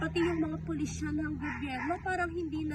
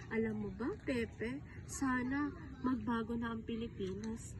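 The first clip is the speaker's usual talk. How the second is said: soft, low, heartfelt hope; earnest wishing; 4 semitones lower, 5 dB quieter than usual. Acted. Confiding hopes for the Philippines to a friend, earnest. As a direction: confide a wish quietly.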